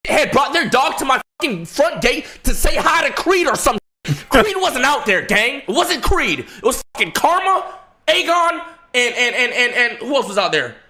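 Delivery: high, giggling retelling; laughing through it. Real, not acted. Laughing as he tells the friend about the dog fight. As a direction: laugh while telling the story.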